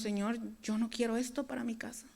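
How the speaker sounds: soft, breathy plea to God; whispered prayer. Pretend. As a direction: pray it under your breath. (oración susurrada)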